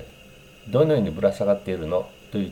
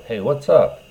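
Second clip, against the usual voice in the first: put-on louder, higher hip greeting from an old man; mock youthful greeting; 4 semitones higher, 6 dB louder, slower than usual. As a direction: sound like you're trying to be young. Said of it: "と使うと多分わ-、笑われると思います". (若者ぶった陽気な挨拶)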